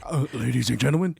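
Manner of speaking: low announcer intro. Retold or imitated. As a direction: introduce him like an emcee. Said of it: "let me do that part".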